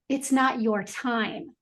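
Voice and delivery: slow, gentle reassurance; tender, unhurried retold word from God. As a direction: lay it down softly and slowly. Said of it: "so gently and say".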